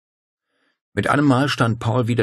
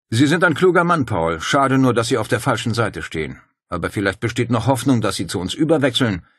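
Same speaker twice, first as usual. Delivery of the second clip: Dario's voice; 5 semitones higher, 5 dB louder than usual. Acted. Dario courts Paul smoothly.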